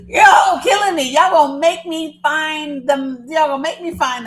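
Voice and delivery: cracking up at the chat's wrong guesses; laughing. Real, not acted. Chat keeps guessing wrong names.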